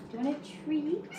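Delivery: high, soft voice for a pet; coaxing pet-owner lilt; pet-talk. Real, not acted. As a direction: tempt the cat with a high, rising question. Tempting the pet with a treat.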